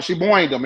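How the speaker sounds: boined with an oi sound for burned; mock Brooklyn boined. Shown as a demonstration. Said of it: "She boined them a little bit".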